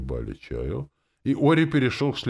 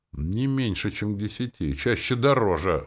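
exclaiming; 7 semitones higher, 4 dB louder than usual. A narrator's reading. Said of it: "воскликнул Ури".

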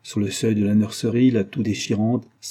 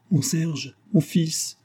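crying out; 7 semitones higher, much slower than usual. A narrator's reading. Mother rushing to the cradle, crying out. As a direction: cry out in a high voice. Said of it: "en criant".

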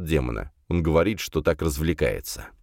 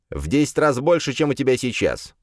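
demon voice; 6 semitones higher than usual. Acted. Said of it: "сразу ответил демон".

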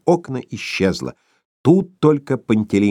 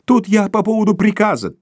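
broken voice; 10 semitones higher than usual. A narrator's reading. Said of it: "прерывающимся голосом".

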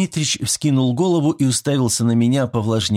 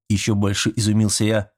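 normal talking voice

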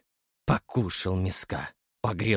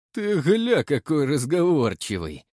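smirking; 5 semitones higher than usual. A narrator's reading. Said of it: "усмехнулся Кривоносый".

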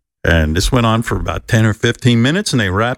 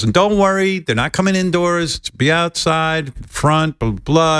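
lightly voiced reassuring friend; 6 semitones higher than usual. Producer friend reassuring him.

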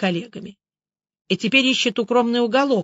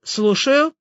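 irritated voice; 5 semitones higher, 3 dB louder than usual. A narrator's reading. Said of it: "весьма раздражённый голос".

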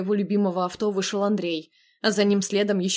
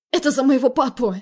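hoarse shout; 5 semitones higher, 6 dB louder than usual. Acted. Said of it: "выкрикнула хрипло".

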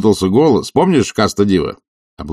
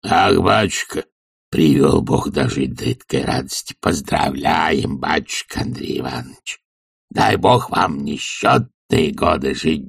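put-on lower, wheezing old servant's blessing; hoarse old servant; 3 semitones lower than usual. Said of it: "сипел, хрипел". (сиплый голос старого слуги)

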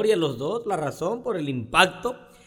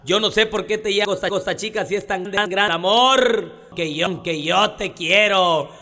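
poem recital. Acted. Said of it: "como dijo Rubén Mora".

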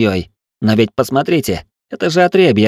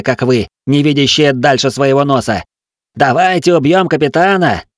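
high, loud contemptuous dressing-down; scornful tirade; 6 semitones higher, 3 dB louder than usual. A narrator's reading. Tiel berates the mutinous crew, scornful loud tirade. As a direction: tear into them with scorn.

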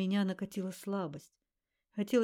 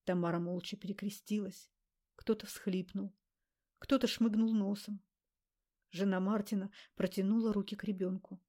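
ordinary delivery

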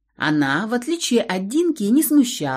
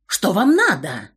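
shrill shout; 3 dB louder than usual. Acted. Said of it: "немного визгливо закричал он".

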